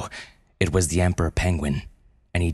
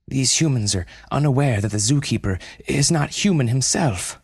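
earnest panda, raised and higher; urgent panda spy reporting in; 7 semitones higher than usual. Acted. Panda Mei Lan reports news.

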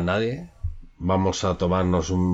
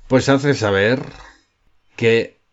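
louder, higher public proclamation; town crier; 4 semitones higher, 4 dB louder than usual. Pretend. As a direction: call it out to the village square. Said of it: "Dilo tú, Fernando".

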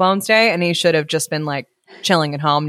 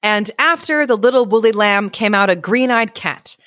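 measured, expressive storyteller; story narration; 2 semitones higher than usual. A narrator's reading. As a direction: read it aloud like a picture book. Reads story aloud.

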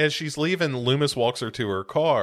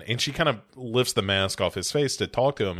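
usual speaking voice

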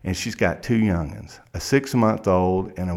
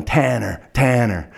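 calling out; 3 semitones higher, 3 dB louder than usual. Retold or imitated. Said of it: "he's yelling".

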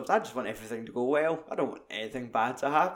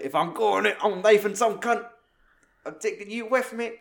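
higher, louder hammed-up last stand; mock battle cry; 8 semitones higher, 4 dB louder than usual. Retelling Hugo's last stand to a friend, higher hammed-up snarl. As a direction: snarl it like going down fighting. Hugo voiced knifing a soldier.

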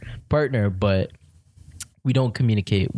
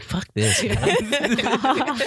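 armadillo voice; 13 semitones higher, much slower than usual. Acted. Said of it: "The armadillo is like".

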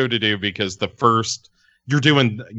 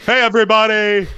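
high, loud, hurried holler; excited yell; 13 semitones higher, 5 dB louder, faster than usual. Retold or imitated. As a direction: yell it happily at the TV. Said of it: "I actually did yell at the T V".

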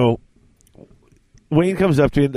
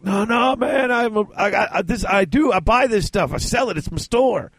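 put-on higher-pitched drunken Southern accent; imitated Southern accent; 6 semitones higher than usual. Drunk friend insisting it's his store, mock Southern accent. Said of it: "fell into the South".

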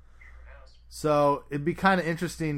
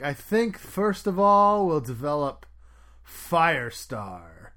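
Kevin Feige; 5 dB louder, slower than usual. Retold or imitated. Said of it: "He's like".

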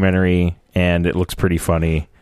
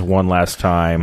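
slow and dramatic; 4 semitones lower, 3 dB quieter, slower than usual. Shown as a demonstration. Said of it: "It says".

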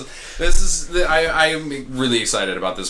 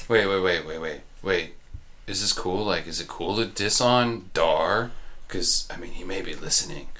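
hushed worry; 4 semitones lower, 6 dB quieter than usual. Acted. Worried someone overhears gossip.

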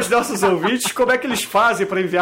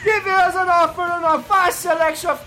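ad announcer; 5 semitones higher than usual. Acted. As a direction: sell it like a TV ad. Mock English sales ad.

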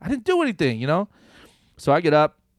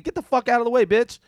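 higher, louder snapped thought; inner rage; 11 semitones higher, 5 dB louder than usual. Retold or imitated. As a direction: spit out the unspoken insult. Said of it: "in my mind, I'm thinking".

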